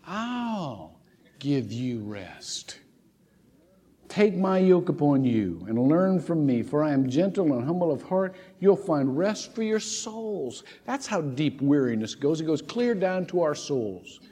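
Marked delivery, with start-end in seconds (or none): 0.1-2.8 quieter, very slow echo of the promise; soft echo. Shown as a demonstration. Preacher echoing the verse to her congregation, hushed. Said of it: "and I'll give you rest". 4.1-10.6 slow, gentle reading of the verse; scripture reading. Acted. Preacher reading Jesus's invitation to the weary, gently. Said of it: "Jesus says this".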